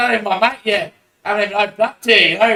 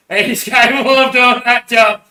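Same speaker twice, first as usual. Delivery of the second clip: laughing through it, higher, louder and slow; 4 semitones higher, 4 dB louder than usual. Real, not acted. Alone on camera, repeating it laughing. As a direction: repeat it cracking up. Says it twice, second laughing.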